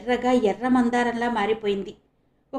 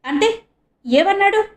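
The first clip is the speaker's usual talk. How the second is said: anxious; 10 semitones higher, 5 dB louder than usual. A narrator's reading. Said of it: "ఆందోళనగా అడిగాడు".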